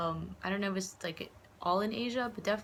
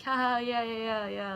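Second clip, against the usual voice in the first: awkward laugh; 4 semitones higher, 3 dB louder than usual. Retold or imitated. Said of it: "I just awkwardly laugh".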